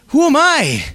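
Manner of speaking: high, laughing, mocking the doubt; laughing mock Eeyore. Preacher mocking his own fear of witnessing, laughing. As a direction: toss it off with a laugh. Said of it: "Eeyore moments".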